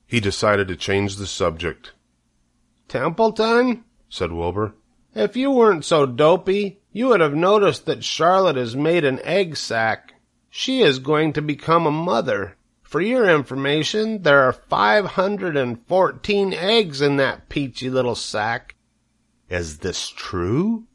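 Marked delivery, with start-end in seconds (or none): 2.9-18.7 put-on much higher, eager young pig; high-pitched pig. Wilbur telling the rat about Charlotte's eggs, high and eager. 19.5-20.8 suspicious. Acted. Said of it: "eyeing the sac suspiciously".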